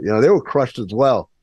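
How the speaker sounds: ordinary delivery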